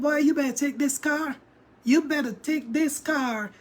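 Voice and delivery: firm mock-parental warning; warning mother. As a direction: imitate a mom laying down the law. Retold mother warning son.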